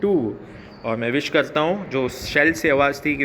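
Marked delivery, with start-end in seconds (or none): 0.0-0.3 slow, in spaced-out phrases; model reading. Shown as a demonstration. Teacher showing pupils how to read the line, slow and phrased. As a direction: read it slowly, pausing between word groups. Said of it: "इस line को कैसे पढ़ेंगे?".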